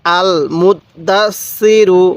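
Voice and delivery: "আল মুত দাস সি রু" slow, syllable by syllable, doubled letters held; tashdid demonstration. Shown as a demonstration. Teacher showing learners how to join doubled letters, slow syllable-by-syllable demonstration. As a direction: sound out "আল মুত দাস সি রু" slowly, doubling the marked consonants. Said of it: "এরকমভাবে শিখবেন".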